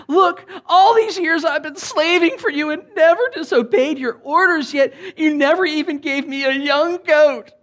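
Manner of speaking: high, loud whiny grown son; petulant young adult. Acted. Older brother complaining to his father, high, loud and petulant. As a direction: whine it like a sulky grown son. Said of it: "petulant young adult".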